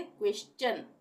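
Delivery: क्वेश्चन ending in a clear चन; stion as chun. Shown as a demonstration. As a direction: land the last syllable as चन. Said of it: "यहाँ पे चन का उच्चारण होगा". (क्वेश्चन में चन ध्वनि)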